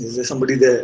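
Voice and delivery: ordinary talk, nothing marked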